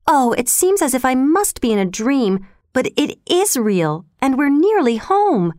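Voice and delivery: put-on dreamy, thrilled girl nearing home; happy sigh. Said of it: "she sighed happily".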